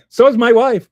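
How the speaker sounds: laughing high and loud through the punchline; laughing joke. Real, not acted. Streamer joking to chat about his wife, laughing out loud. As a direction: burst out laughing at your own joke. Joke after glad to be alive.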